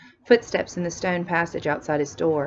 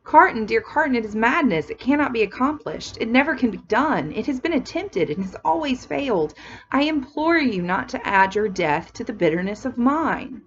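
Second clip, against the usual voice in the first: pleading; 5 semitones higher than usual. Acted. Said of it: "like a young child in his hands".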